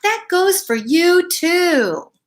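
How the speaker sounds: mock-stern big dog scolding a bunny; barking tough dog. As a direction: bark it at the bunny. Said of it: "Mike barked".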